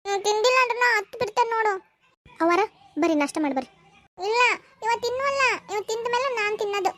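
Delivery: put-on childish tantrum over food; childlike pouting voice. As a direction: scold the dolls like a little girl at play. Childlike woman feeding dolls.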